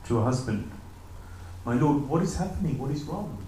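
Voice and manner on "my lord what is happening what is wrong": calm, soothing. Retold or imitated. Wife gently asks her furious husband what is wrong, calm and soothing. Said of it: "in a very calm, soothing voice".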